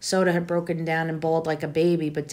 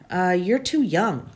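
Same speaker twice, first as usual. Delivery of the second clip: stammering; slower than usual. Acted. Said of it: "Jerry stammered".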